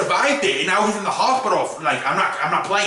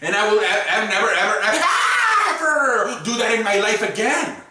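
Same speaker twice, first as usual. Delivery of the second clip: laughing vow. Real, not acted. Laughing vow never again.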